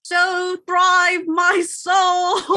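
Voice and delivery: slow, loud, high declaration; booming shout. Acted. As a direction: bellow it out slowly. Romeo shouts slowly.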